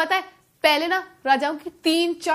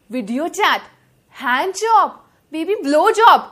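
mock pleading, building louder with each demand; boyfriend's demands; 4 dB louder, slower than usual. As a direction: imitate a needy boyfriend getting more insistent. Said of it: "और इनकी फरमाइशें".

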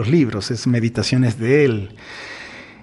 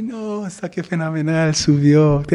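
rejoicing mourner; 4 semitones higher than usual. Acted.

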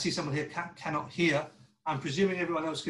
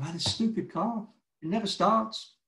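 higher, louder whiny grumble about a car that never starts; grumbling complaint; 6 semitones higher, 4 dB louder than usual. Retold or imitated. Preacher mimics a churchgoer fed up with his car, higher, louder whine. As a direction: moan it like you're fed up.

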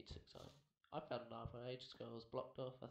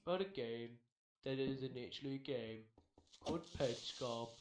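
YouTuber intro voice; 6 dB louder than usual. Pretend. Mock YouTuber documentary intro.

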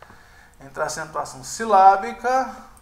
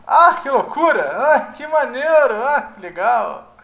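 loud, higher exclamations, each fading at the end; mock excitement; 5 semitones higher, 8 dB louder than usual. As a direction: cry out each one like a delighted fan. (empolgação exagerada)

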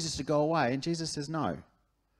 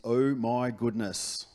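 slow, lower, drawn-out "Oh my goodness"; stunned awe; 4 semitones lower, 3 dB louder, much slower than usual. Retold or imitated. Stepdad seeing her changed life, slow low awe. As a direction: let the shock land slowly.

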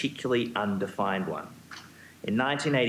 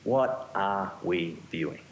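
put-on New York accent; 3 semitones lower, slower than usual. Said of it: "put on our New York dancing shoes and ask".

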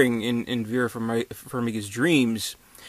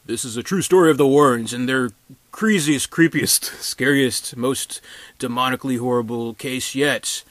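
louder, hammed-up movie trailer announcer; mock trailer voice; 3 dB louder than usual. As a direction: sell it like a cheesy horror trailer.

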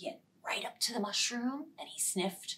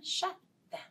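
higher chanted shut them; high sing-song; 9 semitones higher than usual. Shown as a demonstration. Teacher chanting a finger rhyme to children, high. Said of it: "finger play rhyme with kids".

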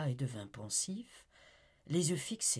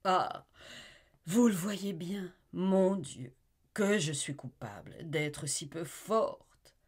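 anguished woman; 3 semitones higher, 5 dB louder than usual. Acted. Amy torn between love and duty, anguished. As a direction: beg him to forget her.

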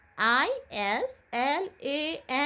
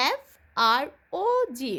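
slow spelling drill; slower than usual. Shown as a demonstration. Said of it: "আবার বলো".

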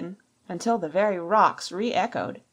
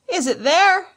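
high, loud demanding roar; explosive, impatient question; 11 semitones higher, 10 dB louder than usual. A narrator's reading. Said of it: "roared Pew".

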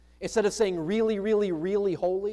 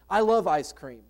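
"I love ice cream" said louder, with conviction; emphatic; 5 dB louder than usual. Real, not acted. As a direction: declare "I love ice cream" firmly and loudly. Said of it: "I can say that emphatically".

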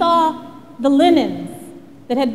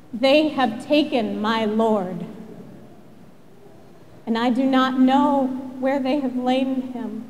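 a touch of tears held back, steady voice; tearful, understated; 2 semitones lower, 4 dB quieter than usual. Acted. Mary answers the angels through her tears, quietly grieving. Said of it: "through her tears".

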